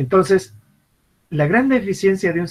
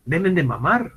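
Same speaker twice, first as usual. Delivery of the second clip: put-on baby's imagined voice; 3 semitones higher, slower than usual. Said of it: "si pudiera hablar, diría".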